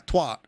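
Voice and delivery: "twat" in imitation American, with an open "ah"; American pronunciation. Streamer repeating a word she dislikes, American-style "twat". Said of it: "American twat sounds like".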